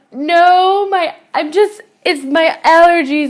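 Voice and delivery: high, loud protest that it's only allergies; defensive denial. Retold or imitated. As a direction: insist loudly you're not crying. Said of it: "And I was like".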